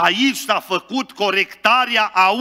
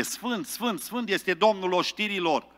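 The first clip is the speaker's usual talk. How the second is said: "Sfânt, sfânt" said much softer, almost breathed; hushed holy words; 8 dB quieter than usual. Retold or imitated. Isaiah hearing only holy words, very soft. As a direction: let "Sfânt, sfânt, sfânt" fall to a hush.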